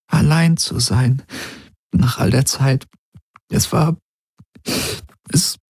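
high, halting woman's voice; high, halting, searching for words; Ylana's voice. A narrator's reading. Ylana struggles to tell Garland of her loneliness, halting.

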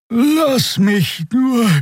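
very high, very slow words breaking into a yawn. Acted. Xer waves off Endriel, yawning as she speaks. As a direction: let the yawn swallow the line. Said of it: "Ein Gähnen unterbrach sie".

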